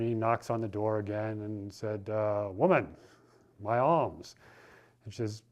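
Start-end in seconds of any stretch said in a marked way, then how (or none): 2.5-4.4 impatient demand. Acted. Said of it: "he gets a little impatient".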